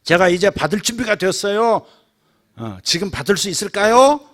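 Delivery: loud, assured yet courteous asking; confident polite prayer. Shown as a demonstration. Believer confidently and politely praying to Father. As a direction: ask the Father boldly but politely. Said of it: "이렇게 공손하게, 확신을 가지고".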